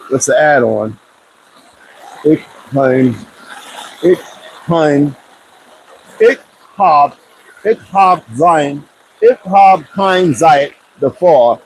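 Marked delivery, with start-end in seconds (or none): 2.2-11.6 slow, careful German \"ich hab kein Zeit dafür\"; German phrase. Shown as a demonstration. Teaching viewers a German phrase, slowly sounded out. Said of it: "which is pretty much saying".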